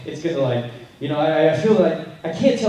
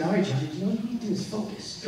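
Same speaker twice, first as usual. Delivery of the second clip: inner pep talk; 3 semitones higher, 7 dB quieter, faster than usual. Retold or imitated. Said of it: "I'm just thinking".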